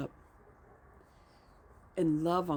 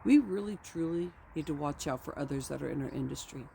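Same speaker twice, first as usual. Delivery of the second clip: grounded speaker. Retold or imitated. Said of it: "I say".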